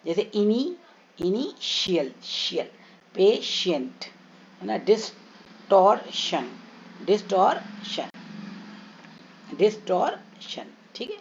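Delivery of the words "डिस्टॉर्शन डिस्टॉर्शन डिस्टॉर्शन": slow डिस्टॉर्शन with a clear श sound; slow model word. Shown as a demonstration. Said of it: "तो टी का उच्चारण श हो जाता है". (धीमा, साफ़ श वाला डिस्टॉर्शन)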